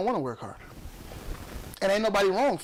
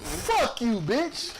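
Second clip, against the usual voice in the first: "Fuck" with a heavy, drawn-on F, pitched high; hard-hit F; 5 semitones higher, much slower than usual. Real, not acted. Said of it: "the F on that was very".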